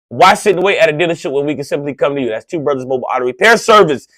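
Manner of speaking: reading the show's sponsor message. Acted. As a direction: run through the sponsor plug. Sponsor ad read.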